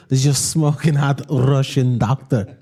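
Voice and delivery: giggling through an imagined doctor intro; half-laughing while voicing the doctor; laughing mock intro. Mimicking the doctor's imagined greeting through laughter. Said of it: "That'd be great if she said that".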